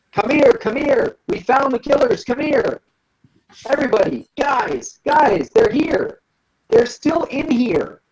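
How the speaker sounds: high, frantic-call kobold voice; screaming kobold. Acted. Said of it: "he screams at you in Draconic".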